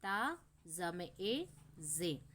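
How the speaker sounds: slow, letter by letter; slow spelling-out for children; sounding out syllables. Shown as a demonstration. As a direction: join the sounds slowly one by one. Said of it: "उसी प्रकार त में आ".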